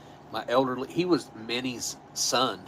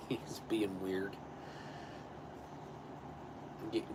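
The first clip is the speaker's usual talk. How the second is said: whispering; 3 semitones lower, 14 dB quieter than usual. Real, not acted. Aside about the cat.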